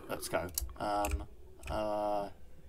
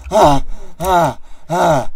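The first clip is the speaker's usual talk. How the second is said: loud repeated "ah" bursts; loud panicked gasps; 3 semitones higher, 10 dB louder, much slower than usual. Real, not acted. Gamer struggling out of the water, loud gasps. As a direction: gasp it out in loud, separate bursts. Gasping after frantic underwater swim.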